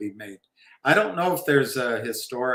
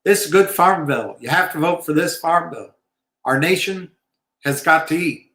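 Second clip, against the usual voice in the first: lightly voiced Bush, higher and louder; hammed-up folksy politician plea; George W. Bush; 4 semitones higher, 5 dB louder than usual. Mimicking Bush pushing the farm bill, higher and louder. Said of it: "George W. Bush".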